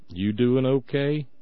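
put-on You doing okay drawled slowly, Southern accent. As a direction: stretch it out like a Southern friend. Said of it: "They sound Southern".

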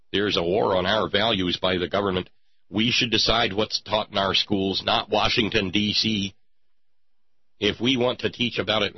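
lightly voiced indignant politician; Aaron Miller. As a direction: declaim it like a mild stump speech. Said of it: "Enter Aaron Miller".

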